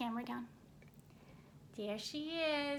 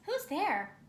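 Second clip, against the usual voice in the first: high, louder little mouse cry; mouse cries out; 7 semitones higher, 7 dB louder than usual. Acted. Mouse calling out to the eyes in the den, startled and high. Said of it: "Mouse cries".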